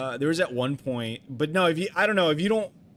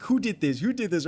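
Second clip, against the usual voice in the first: excited repeated question, raised pitch; elated; 4 semitones higher than usual. Retold or imitated. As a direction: replay delighted surprise. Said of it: "and I was, like, elated".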